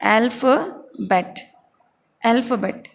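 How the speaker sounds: अल्फ़ाबेट slow and careful; model pronunciation. Shown as a demonstration. Teacher models अल्फ़ाबेट in English, slow. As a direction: sound out अल्फ़ाबेट slowly. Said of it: "इसको बोलेंगे हम English में".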